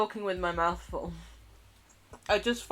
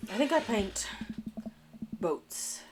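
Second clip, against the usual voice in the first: whispered; 3 semitones higher than usual. Real, not acted. Whispered answer.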